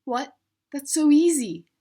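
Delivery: loud, high mocking shout; shouted taunt. A classmate jeering at the easy word, loud and high. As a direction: yell it scornfully across the class. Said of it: "One student shouts out".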